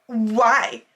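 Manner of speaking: huffed, imitated one-word challenge; rude customer's why. Customer huffing at the hostess's apology, rude. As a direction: mimic a put-out customer's "Why". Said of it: "literally exactly like that".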